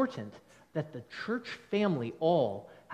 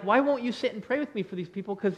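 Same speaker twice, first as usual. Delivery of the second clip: mildly frustrated plea, pitched up; a touch of exasperation, higher voice; 4 semitones higher than usual. Acted. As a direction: act out an exasperated teammate urging a change of heart. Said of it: "this one's frustrated".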